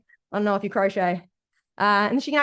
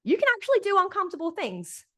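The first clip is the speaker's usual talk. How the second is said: coach voice; 6 semitones higher than usual. Retold or imitated. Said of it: "Might say".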